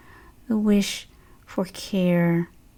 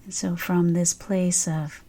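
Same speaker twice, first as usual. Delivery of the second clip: guided meditation; 3 dB quieter than usual. Real, not acted. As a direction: ease listeners gently into stillness, unhurried.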